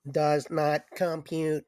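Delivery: slow, even robot voice; toy robot voice. Pretend. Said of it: "I am a robot".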